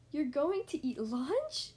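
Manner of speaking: slow question leaping up on "lunch"; drawn-out, wondering question; surprised realisation. Acted. Gerald realises it is only lunch.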